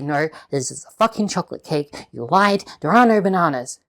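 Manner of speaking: loud and outraged, done for effect; mock indignant outburst. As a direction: call out the lie, loud and punchy. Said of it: "You say".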